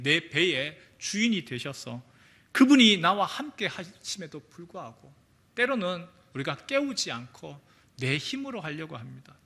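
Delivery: ordinary talk, nothing marked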